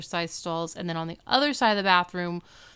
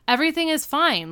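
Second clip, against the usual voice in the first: manic insistence; 8 semitones higher, 5 dB louder than usual. Retold or imitated. Repeats with cut hair.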